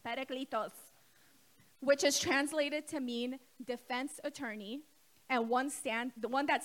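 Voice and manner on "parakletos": parakletos with a Middle Eastern accent. Shown as a demonstration. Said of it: "I'm gonna say it with my Middle Eastern accent".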